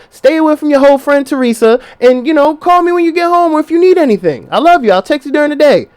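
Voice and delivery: lightly voiced sweet wife; loving wife. Wife leaving house.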